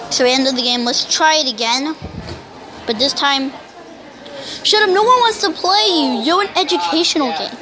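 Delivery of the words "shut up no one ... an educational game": annoyed outburst. Real, not acted. Yelling at the game.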